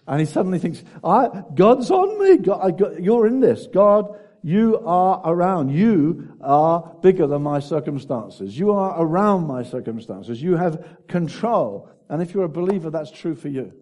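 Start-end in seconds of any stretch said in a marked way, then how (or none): 1.0-11.9 loud, raised, fervent declaration; sudden realisation. Acted. Preacher acting the prophet suddenly realising God's presence, fervently exclaiming. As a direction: proclaim it slowly and forcefully to God.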